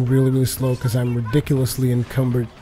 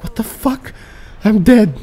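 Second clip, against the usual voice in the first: panicked mock despair; 7 semitones higher, 3 dB louder, slower than usual. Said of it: "I'm like".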